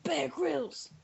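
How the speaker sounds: stage whisper; dramatic whisper. Acted. Revealing her joke to the co-host, dramatic whisper. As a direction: hiss the name like a big reveal.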